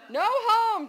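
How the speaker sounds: put-on very high, loud little-kid holler; toddler yell. A narrator's reading. Toddler still refusing to go home, high defiant yell. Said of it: "Dawson yelled again".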